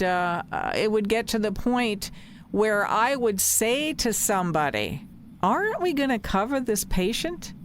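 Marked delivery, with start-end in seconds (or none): 5.4-7.5 higher-pitched questioning, in a nurse's words; retold appeal. Nurse asking a colleague to cover the patient, questioning.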